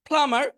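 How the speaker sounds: প্লাম্বার said as প্লামার with no b; silent b. Shown as a demonstration. Teacher showing the b is silent in প্লাম্বার. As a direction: drop the b in প্লাম্বার. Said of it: "এখানে বিটা উচ্চারণ হবে না".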